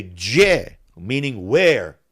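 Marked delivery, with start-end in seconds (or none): 0.0-0.8 Montenegrin dialect. Shown as a demonstration. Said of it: "Like they say".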